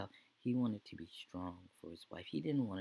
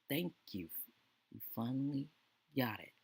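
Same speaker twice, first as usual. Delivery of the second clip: higher and louder, bursting with relief; relieved outburst; 6 semitones higher, 7 dB louder than usual. Retold or imitated. Husband relieved wife agrees.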